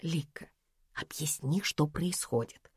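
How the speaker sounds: very soft, hushed request; whispering. A narrator's reading. Narrator secretly asks Lika what is happening, whispering. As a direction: ask under cover, barely voiced. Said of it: "шёпотом попросила я".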